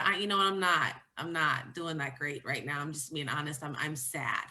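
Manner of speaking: subdued, tired heart-to-heart with husband; sad confession. Retold or imitated. Telling husband she is sad.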